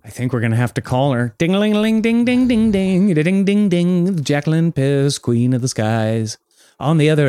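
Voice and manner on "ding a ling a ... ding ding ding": phone ring imitation.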